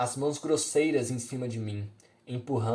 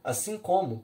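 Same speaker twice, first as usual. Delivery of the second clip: defiant retort; 6 semitones higher than usual. A narrator's reading. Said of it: "reagindo também".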